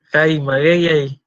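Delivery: "Jai mageiai" said slowly, syllable by syllable; Greek pronunciation. Shown as a demonstration. Teacher repeats "Jai mageiai" to class, slowly. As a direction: model "Jai mageiai" for students. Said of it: "Fíjense cómo cambió el acento".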